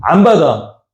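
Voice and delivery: ordinary delivery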